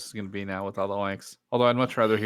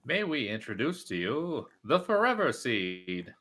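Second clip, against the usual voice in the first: character voice. Pretend. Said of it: "Maybe that should be my character voice".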